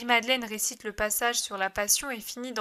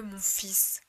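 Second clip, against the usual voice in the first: whispered; 3 semitones lower, 5 dB quieter than usual. Acted. Whispered end of line.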